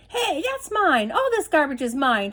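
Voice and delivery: high possessive yell, slowed on the first words; shouting. Acted. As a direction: bellow that the garbage is yours. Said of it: "shouted Ernest".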